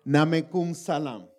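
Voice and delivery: low, loud and drawn-out salaam; solemn greeting. Acted. Preacher playing his reply to the mosque greeting, solemn and slow. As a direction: intone the reply slowly, deep and loud.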